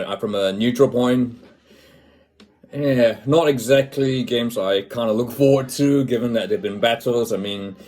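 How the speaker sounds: normal talking voice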